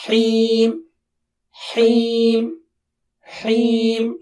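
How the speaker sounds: Heem with a clearly breathed ha; Heem, h fully audible. Shown as a demonstration. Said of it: "Ha sound should be clear".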